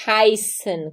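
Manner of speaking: heißen with "ei" said as ai; German pronunciation. Shown as a demonstration. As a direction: model heißen clearly, set apart by pauses. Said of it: "você vai pronunciar A I". (heißen com som de "ai", em alemão)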